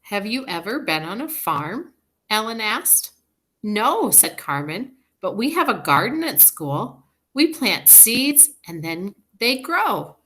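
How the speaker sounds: teacher reading a story to a class; reading to children. Acted. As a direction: read it bright for young listeners. Reading a picture book aloud.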